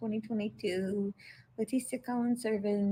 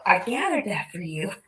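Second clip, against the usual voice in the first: mock offer; 4 dB louder than usual.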